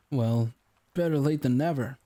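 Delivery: smug client speaking through a stiff smile; rigid smile. Acted. Baker taunting the late detective, with a rigid smile. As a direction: needle him with a tight, fake smile. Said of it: "with a rigid smile".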